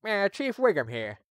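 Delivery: Chief Wiggum impression. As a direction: drawl it out like a bumbling police chief. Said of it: "can I even do a Wiggum voice?".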